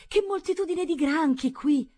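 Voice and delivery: high, loud, slow mock wonder; exaggerated, put-on boyish amazement; feigned interest. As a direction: marvel loudly as a distraction. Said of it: "fingevo interesse solo alla mia caccia".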